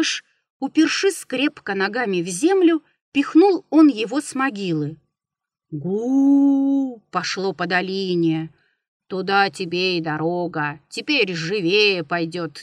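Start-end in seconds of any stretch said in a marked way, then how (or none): 5.7-7.0 echoing rumble; booming gu. A narrator's reading. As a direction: boom it out like a rolling rock. Rock rolling down the valley.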